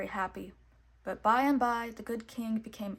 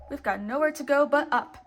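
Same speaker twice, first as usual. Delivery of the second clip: upbeat; 5 semitones higher, 9 dB louder than usual. A narrator's reading. Mickey cheering friends on.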